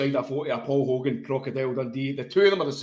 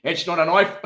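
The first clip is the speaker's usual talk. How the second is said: higher, louder mock South African accent; 4 semitones higher, 6 dB louder than usual. Teasing co-host over his attempt, exaggerated South African accent. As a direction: mimic it as botched South African. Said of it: "turn into a South African".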